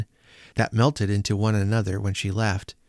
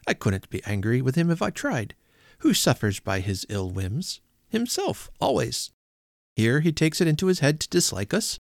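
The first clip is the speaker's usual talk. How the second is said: amused nephew. Acted. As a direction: make light of the money. Nephew figure voiced.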